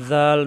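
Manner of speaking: জাল with a soft voiced th-like start; soft articulation. Shown as a demonstration. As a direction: let the tongue tip touch the teeth lightly on জাল. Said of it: "নরম করে উচ্চারণ".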